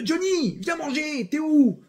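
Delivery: put-on high, calling out to a child; mother calling. Mother calls Johnny in for dinner, high calling voice. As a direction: call him in like a mother from the window.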